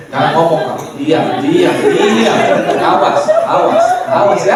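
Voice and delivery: playful warning wife, shifted voice; mock scolding wife. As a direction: hush the husband with a teasing threat. Acting wife scolding husband. (istri menegur suami dengan bercanda)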